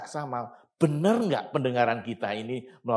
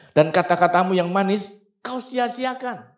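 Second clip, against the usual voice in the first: solemn scripture reading; 6 semitones higher, 6 dB louder than usual. Shown as a demonstration. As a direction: read the verse like holy writ, stretching siasiakan. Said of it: "ayat delapan berkata begini".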